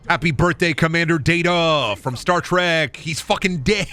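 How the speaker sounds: hammed-up birthday shout-out; mock celebratory announcement.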